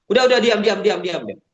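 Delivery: mock a teacher hushing a noisy room; scolding hush. Shown as a demonstration. Trainer shows how not to stop participants laughing, scolding hush. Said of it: "Jangan pakai kayak gitu lagi".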